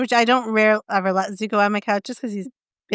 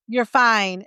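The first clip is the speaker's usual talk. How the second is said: stern, no yelling. Retold or imitated. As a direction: imitate a calm, firm command without raising your voice. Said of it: "It was just a stern".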